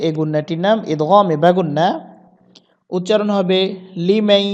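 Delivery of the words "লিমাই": লিমাই with the ending held through the nose; nasal ghunnah. Shown as a demonstration. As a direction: hum out the end of লিমাই. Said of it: "গুণনা করতে হবে".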